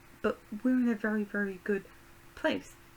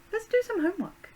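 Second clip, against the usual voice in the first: high, loud and gleeful; excited squeal; 12 semitones higher, 7 dB louder than usual. Pretend. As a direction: squeal it like a giddy tease. Voicing flirty sim, squeal.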